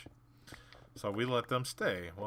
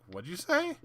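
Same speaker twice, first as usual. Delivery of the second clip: higher and louder, squaring up; confronting challenge; 10 semitones higher, 6 dB louder than usual. Retold or imitated. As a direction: call him out on the mumble. Confronting mumbling kid.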